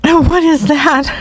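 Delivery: amused, slow laugh-through question; disbelieving giggle. Real, not acted. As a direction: ask it while still laughing. Laughing at odd sports name.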